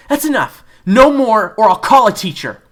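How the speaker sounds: high, loud, fierce warning; loud threat. Acted. June yelling at David to stop, loud and fierce. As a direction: shout him down.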